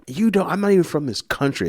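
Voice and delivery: high-pitched indignant mom; imitated telling-off. Mom rebuffing the police officer, imitated telling-off. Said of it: "she ripped him a new one".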